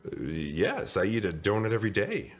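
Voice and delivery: hesitant, sheepish confession; mildly embarrassed admission. Acted. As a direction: own up with a guilty stammer. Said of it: "Mister Bing said sheepishly".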